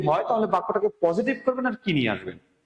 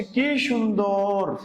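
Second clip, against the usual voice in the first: slow exclamation; much slower than usual. Shown as a demonstration. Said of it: "বলছে".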